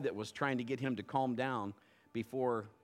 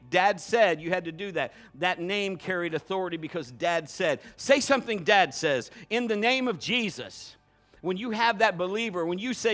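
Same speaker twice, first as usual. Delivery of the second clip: loud, raised-pitch sermon delivery; full-force preaching; 5 semitones higher, 7 dB louder than usual. Real, not acted. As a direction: drive every phrase home to the congregation.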